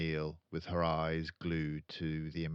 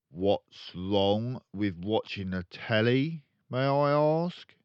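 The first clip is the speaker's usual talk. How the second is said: soft and dangerous; 4 semitones higher, 7 dB louder, slower than usual. Acted. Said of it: "His voice had suddenly become soft and dangerous".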